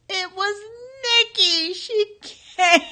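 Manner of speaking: choked up, happy tears; real tears of joy; crying with joy. Real, not acted. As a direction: voice cracking into tears, high. Recalls daughter's surprise visit.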